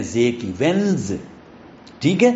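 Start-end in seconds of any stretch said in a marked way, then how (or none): 0.6-1.1 وینز with a buzzed Z ending. Shown as a demonstration. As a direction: say وینز as "wenz". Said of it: "زیڈ کی آواز دے رہے ہیں".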